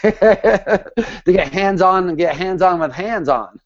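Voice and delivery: slow, laughing wordplay. Real, not acted. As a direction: laugh through the pun. Laughing at own slip.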